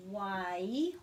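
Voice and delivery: "Wai" stretched into one smooth glide; drawn-out gliding vowels. Shown as a demonstration. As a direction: glide "Wai" slowly from a into i, lifting at the end. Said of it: "just gliding it together".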